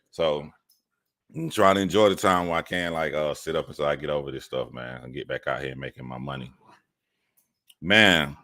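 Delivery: normal talking voice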